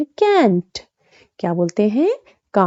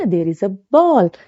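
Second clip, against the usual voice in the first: slow and even; slow example; much slower than usual. Shown as a demonstration. Teacher giving a slow example to students. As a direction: read it out slowly for learners. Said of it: "जैसे बोलेंगे ना".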